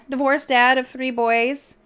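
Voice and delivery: put-on a light country accent, slowed down. Streamer jokingly reading a dating profile in a light country accent. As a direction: play the simple country boy with a touch of a country accent. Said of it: "said that with an accent at the end".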